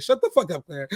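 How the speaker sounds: high, laughing mock snap; mock-yell it at the chatterbox with a laugh; imitating Todd. Todd telling Claire to shut up, high laughing mock yell. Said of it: "And he's like".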